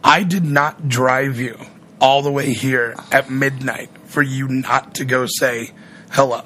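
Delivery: slow, deliberate telling-off from a dad; imitating stern dad. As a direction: retell dad's words slowly, word by word. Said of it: "my dad actually turned to me and said".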